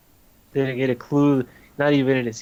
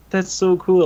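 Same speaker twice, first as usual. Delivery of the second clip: higher, louder mock awe; imitated proud delight; 6 semitones higher, 6 dB louder than usual. Jamaican teacher learning of a Jamaican wrestler, imitated proud delight. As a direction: mildly play up someone's proud delight. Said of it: "he felt, like, so, like, proud".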